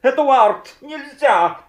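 high, loud pleading father voice; exhausted father. Acted. Worn-out papa pleading with his son Eduard, loud high. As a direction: beg the child to stop, worn out. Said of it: "уговоры измученного папаши".

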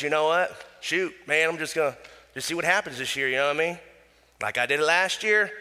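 cocky redneck drawing out a country twang; super redneck. Acted. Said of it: "super redneck on this one".

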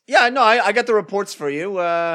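high, loud chipper coworker; cheerful returning employee. Acted. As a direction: play a breezy returning employee. Acted office scene returning worker.

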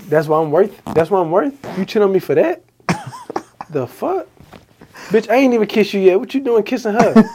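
mock jealous outrage; indignant kid. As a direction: squeal it like a betrayed first grader. Retold jealous outburst as kid.

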